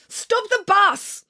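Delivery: high, drawn-out urgent cry; slow, high desperate demand; panicked cry. A narrator's reading. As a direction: call it out in panic. Panicking passenger demands bus stops.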